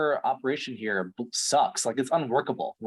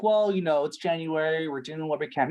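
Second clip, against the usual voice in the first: mocking manager; 3 semitones higher than usual. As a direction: mimic a boss making lame excuses. Mimics manager's excuse, pitched up.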